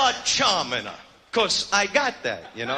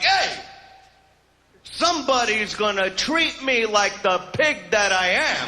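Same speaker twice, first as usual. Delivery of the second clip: mock come-on. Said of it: "that attitude like".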